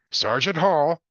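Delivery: police sergeant voice. Acted. Police sergeant answers phone.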